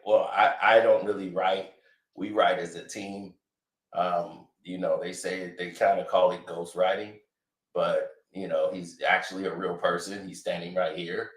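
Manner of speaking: smooth deflecting celebrity testimony; a rapper in court. Retold or imitated. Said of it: "he gonna be like".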